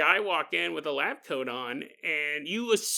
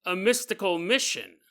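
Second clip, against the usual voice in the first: dramatic teaser narration. Acted. Host teases listeners with a paranormal mystery, dramatic narration. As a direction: tease the legend with weighty pauses. Podcast cold open teaser.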